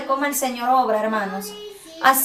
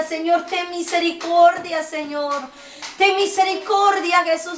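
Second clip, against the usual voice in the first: pleading prayer; 2 semitones higher than usual. Retold or imitated. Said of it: "Yo le decía".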